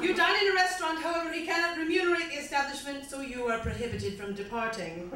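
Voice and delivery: slightly bad British recital; quasi British accent. Comic recites a song to audience, slightly bad British accent. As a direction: read it as poetry in mock-British English. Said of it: "slightly bad British accent".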